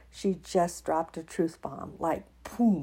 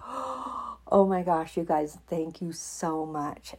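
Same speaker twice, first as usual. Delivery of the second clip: grateful gasp; slower than usual. Retold or imitated.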